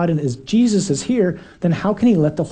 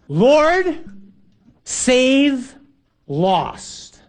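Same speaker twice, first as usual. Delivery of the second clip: screamed plea; 9 semitones higher, much slower than usual. Shown as a demonstration. Disciple screaming to Jesus over the storm, high cry. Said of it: "here's how you have to say it".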